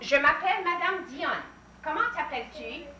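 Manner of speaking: teacher modelling French; French model phrase. Shown as a demonstration. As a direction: say "Comment t'appelles-tu?" crisply as a model for the class. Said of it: "teacher models French phrase".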